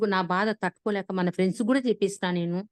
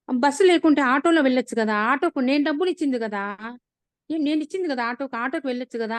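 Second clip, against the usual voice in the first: exasperated wife scolding her brother-in-law over the auto fare; retold angry scolding; 5 semitones higher than usual.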